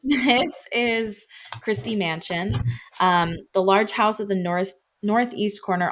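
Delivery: slight lisp around new retainers; talking around fresh retainers with a lisp. Real, not acted. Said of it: "so I'm kind of lisping".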